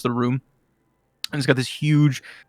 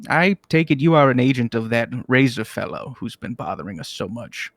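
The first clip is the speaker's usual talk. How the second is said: put-on old wizard. Malcador addresses the demon.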